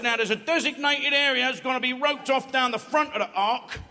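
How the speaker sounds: lion proclaiming the rules, mildly pompous; pompous lion announcement. Acted. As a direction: announce it like a fussy sergeant. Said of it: "He said".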